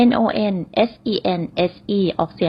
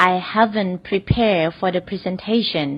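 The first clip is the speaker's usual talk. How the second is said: very slow, careful repeat; slow example repeat; much slower than usual. Shown as a demonstration. Teacher repeats the example slowly for students. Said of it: "ตัวอย่างแรกค่ะ".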